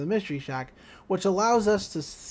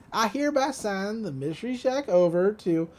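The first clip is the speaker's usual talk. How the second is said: louder, smug mock-official reading; cocky reading; 3 semitones higher, 4 dB louder than usual. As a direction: read it out with a sneer. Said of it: "He's like".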